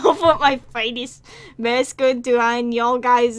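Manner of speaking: put-on weird folksy accent broken up by laughter; laughing through the accent. Streamer cracking up at his own letter reading, laughing folksy accent. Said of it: "Why am I doing this weird accent?".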